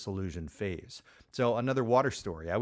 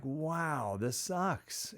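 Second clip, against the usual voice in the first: higher, softly dismayed reenactment; frustrated disbelief; 5 semitones higher, 3 dB quieter, much slower than usual. Retold or imitated. Beginner skier after another failed attempt, mildly frustrated. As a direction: replay mild exasperation in a high voice. I'm getting really frustrated.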